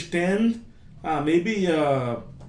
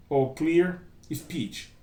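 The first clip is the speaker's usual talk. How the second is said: slow, deliberately clear delivery; a teacher modelling slow, careful speech; 3 dB quieter, much slower than usual. Shown as a demonstration. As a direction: read it out slowly and clearly, word by word. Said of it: "slow and clear speech".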